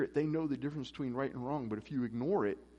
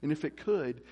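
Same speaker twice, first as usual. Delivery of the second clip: ordinary delivery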